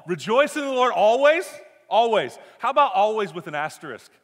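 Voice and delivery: high, loud disbelieving question; incredulous objection. Acted. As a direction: protest the word "always" in mock disbelief. Mock objection to Paul's command.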